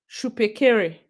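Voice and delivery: "Shupe Kere" set apart, shoo-peh keh-reh; careful pronunciation. Shown as a demonstration. Streamer repeating a viewer's name, "Shupe Kere" pronounced shoo-peh keh-reh. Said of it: "it's pronounced".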